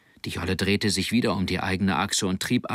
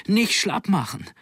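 much higher, urgent narrated yell; shouting; 11 semitones higher than usual. A narrator's reading. Boy urging his exhausted friend not to give up, shouting. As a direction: shout to spur your mate on. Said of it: "schrie Hermann".

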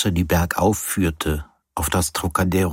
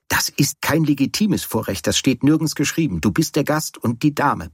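higher-pitched, bickering insistence; insistent protest; 6 semitones higher than usual. Acted. Host arguing that his lady guest must eat first, insistent. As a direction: argue the point in a raised pitch. Mock-serious argument over who eats first.

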